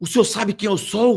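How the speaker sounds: mock, high, furious, vociferous yell. Retelling a woman pointing her finger at a man, imitating a furious shout. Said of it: "começou a gritar, vociferando".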